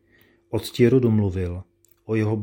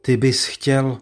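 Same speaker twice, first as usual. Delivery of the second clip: stunned disbelief; 5 semitones higher, 5 dB louder, slower than usual. A narrator's reading. Father stunned by duel challenge.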